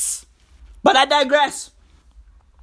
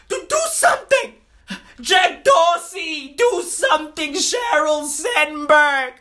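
hammed-up frantic pleading, higher and shouted; mock panic; 3 semitones higher than usual. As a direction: beg the tech billionaires like the world is ending. Mock panicked pleas to tech bosses.

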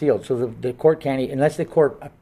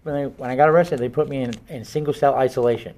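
muffled behind a mask; talking through a face mask. Real, not acted. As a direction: speak through a cloth mask. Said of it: "talking through masks".

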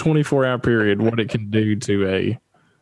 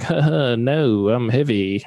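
panting laugh; slower than usual. Retold or imitated. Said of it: "And I'm like".

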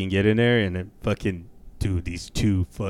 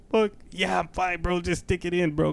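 high-pitched fake bravery; mock-panicky reassurance before a needle; nervous bravado; 9 semitones higher than usual. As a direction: insist you are fine, voice pitched way up.

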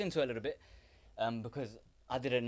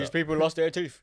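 toothless mumble; 6 semitones higher, 11 dB louder than usual. Pretend. Joking about toothless people.

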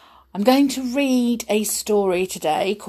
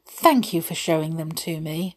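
smiling. Acted. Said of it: "she said with a smile".

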